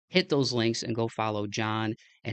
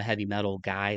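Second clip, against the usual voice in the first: slight Midwest accent on guy; natural Midwest vowels in heavy metal guy. Real, not acted. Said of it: "my Midwest accent really came out there".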